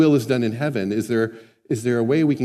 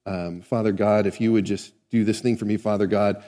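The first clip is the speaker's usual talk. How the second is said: babbling prayer; 5 semitones lower, 3 dB quieter than usual. Retold or imitated. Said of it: "I don't speak like that".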